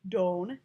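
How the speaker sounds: "Don" for don't, ending on the N; dropped T. Shown as a demonstration. Teacher spelling out the dialect, "Don" without a T. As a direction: say "Don" with no T at all. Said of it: "as if it didn't have that".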